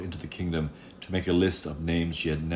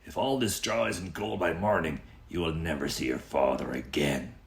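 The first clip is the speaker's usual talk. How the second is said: lightly voiced king. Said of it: "he said".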